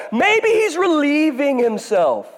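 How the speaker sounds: high, slow laughing jeer; mocking taunt. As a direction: laugh through the insult. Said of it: "starts taunting them".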